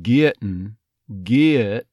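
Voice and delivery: "Getting" as "GI-uht-n", "get" as "gi-uht"; stressed "get" with a schwa glide; vowel off-glide. Shown as a demonstration. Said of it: "may even have that off glide".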